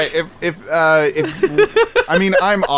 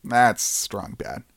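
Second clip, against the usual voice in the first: Strong Bad voice; 6 semitones lower, 5 dB quieter, slower than usual. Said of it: "Is this still a strong bad bit".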